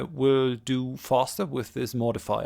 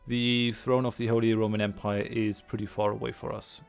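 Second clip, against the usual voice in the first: stuffy nose. Real, not acted. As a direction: voice thick with a cold. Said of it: "if my voice sounds a little bit weird".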